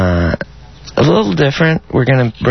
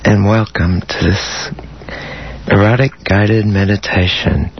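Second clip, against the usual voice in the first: guided meditation; 3 semitones lower than usual. Acted. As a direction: ease them into calm with long pauses. Leads an erotic guided meditation.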